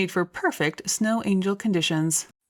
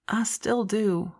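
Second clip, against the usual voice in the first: tender; 2 semitones higher, slower than usual. Acted. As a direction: say it gently, holding her. Tender embrace.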